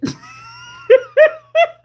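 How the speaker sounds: high, loud burst of laughter. Real, not acted. Laughing at own forgetfulness, loud shrieking laugh. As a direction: crack up at yourself.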